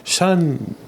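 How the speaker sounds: lightly voiced father addressing his child; dad impression. Son imitating his dad at graduation, dad impression. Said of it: "I'm gonna do my best dad impression".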